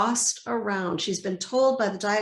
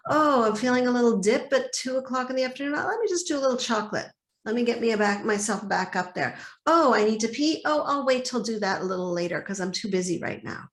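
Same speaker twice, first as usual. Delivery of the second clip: busy inner chatter; 2 semitones higher, faster than usual. Retold or imitated. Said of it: "We've been trained".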